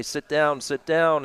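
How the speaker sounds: lightly voiced curling caller urging the rock; Vic Robber voice. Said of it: "My Vic Robber impression there briefly".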